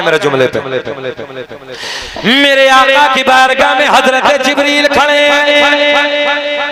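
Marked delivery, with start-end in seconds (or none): 2.2-6.7 rhythmic chanted lineage, held at full preaching force; preaching recitation. Acted. Preacher reciting the lineage to the gathering, full preaching. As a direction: intone each name to the crowd like a sermon. Resumes hadith in sermon voice.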